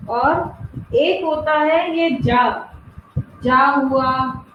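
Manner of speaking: जा spelled out very slowly as a buzzing z sound; nukta letter demo. Shown as a demonstration. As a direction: say जा slowly, like za with a dot below. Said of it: "यहाँ पे अपन बिंदी लगाते हैं ना".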